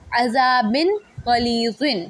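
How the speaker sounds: عذابن غلیظن slow, the نون clear before غین; clear izhar. Shown as a demonstration. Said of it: "یہاں اظہار ہوگا".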